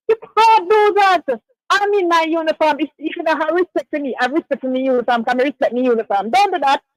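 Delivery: high, firm officer telling her off; stern rebuke. Retold or imitated. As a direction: scold her like an insulted officer.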